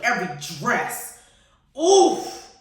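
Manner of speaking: normal talking voice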